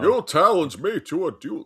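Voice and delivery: echoing a friend's Southern colonel; Southern accent. Retold or imitated. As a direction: repeat the challenge like an indignant colonel. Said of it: "a Southern accent".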